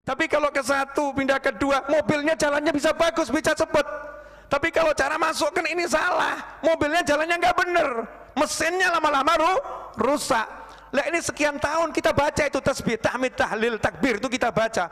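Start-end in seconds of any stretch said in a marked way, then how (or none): 4.5-10.5 raised warning. Real, not acted. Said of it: "warning about doing it wrong".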